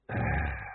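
a soft, low, weary sigh. A narrator's reading. The father sighing before telling his son. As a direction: breathe out the burden. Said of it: "The dwarf sighed".

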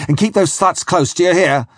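やや高く、声を張って急かす; 苛立った船長がきつく命じる; shouting. Acted. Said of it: "he shouted".

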